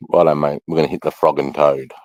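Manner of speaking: "frog and toad" said as a breezy Aussie mate; Aussie rhyming slang. Shown as a demonstration. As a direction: lay on the Australian rhyming slang, casual and matey. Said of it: "Okay, we would say".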